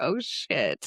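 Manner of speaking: words spilling out through laughter, exclaimed. Retelling own reaction on first reading the book: imitating own past laughing reaction. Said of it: "the whole time just laughing".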